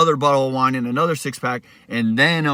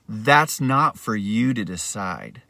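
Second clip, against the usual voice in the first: slow, lower, smug reply; smug quote; 4 semitones lower, slower than usual. Retold or imitated. Roommate smirking at the accused, slow smug taunt. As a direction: replicate his smug calm taunt. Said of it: "he said it like, I'll try to replicate it".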